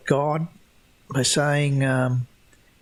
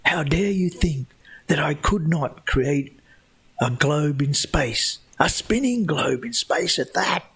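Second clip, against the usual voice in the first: indignant God; 2 semitones higher than usual. Retold or imitated. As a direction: play God scolding the doubters, mildly hammed-up.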